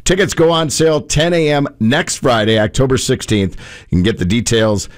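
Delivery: light announcer read of a concert giveaway; radio promo read. Acted. Radio host announcing concert tickets to listeners, promo read.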